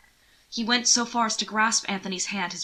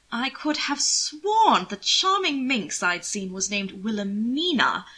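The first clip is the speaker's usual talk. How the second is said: lightly voiced, higher, slowing on the charming minx; amused nobleman; 3 semitones higher than usual. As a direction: savour the memory, teasing. Anthony recalls the sister.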